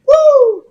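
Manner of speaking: high excited woo; gleeful shout of woo; excited whoop. Retold or imitated. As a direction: whoop like hitting cold water. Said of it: "It's like".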